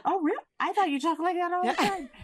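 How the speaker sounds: high, mock-amazed parent voice; surprised parent. Therapist mimics a parent's surprise at her sing-song talk, high and mock-amazed. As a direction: squeak it out like a parent who is honestly surprised. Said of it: "I hear parents be like".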